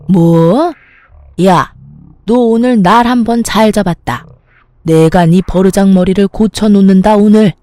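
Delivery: mother-in-law losing it, yelling at her daughter-in-law; furious threat. Acted. (며느리에게 악쓰며 위협하는 시어머니)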